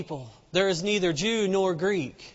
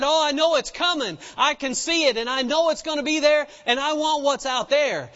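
excited believer; 5 semitones higher than usual. Acted. Preacher voices the woman seeing her healing coming, excited and high. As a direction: burst out with eager certainty.

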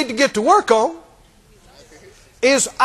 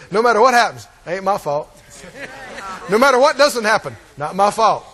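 mock excuse-maker; 4 semitones lower than usual. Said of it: "They like no-fault religion".

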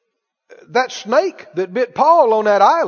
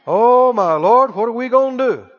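mock helpless fretting. Preacher mimicking people who don't know any better, mock helpless fretting. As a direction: fret like someone with no faith. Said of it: "Don't talk like that".

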